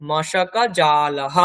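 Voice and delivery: মশকা জালাহ very slow, breathy -ah ending; Sanskrit visarga. Shown as a demonstration. Teacher giving the word for mosquito net, slow. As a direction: draw it out, end on a breath. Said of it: "মসকুইটো net".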